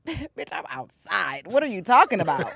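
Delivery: laughing through the words; laughing retort. Retold or imitated. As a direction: toss it back with a laugh. Retold comeback to mom, laughing.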